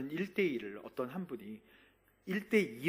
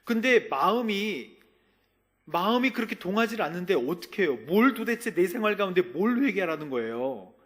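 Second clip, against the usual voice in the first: raised, pleading complaint; exasperated protest; 5 semitones higher, 7 dB louder than usual. Retold or imitated. Pastor reenacting his protest to God, exasperated and louder. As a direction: push back like a frustrated believer.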